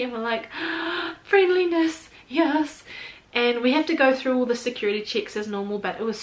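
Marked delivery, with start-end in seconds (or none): 0.9-2.8 gasp, then a high, loud exclamation; mock-awed gasp of delight; delighted amazement. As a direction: act out being thrilled by a welcome. Acting out delight at friendly welcome.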